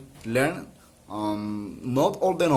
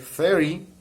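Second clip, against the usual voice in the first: "thirty" said as THIR-ty, first syllable higher and stronger; "thirty" with the weight up front, fading at the end; stress at the start; 5 semitones higher, 4 dB louder than usual. Shown as a demonstration. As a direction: lean on the start of "thirty" and let it fade. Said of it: "the highest tone of voice is at the beginning".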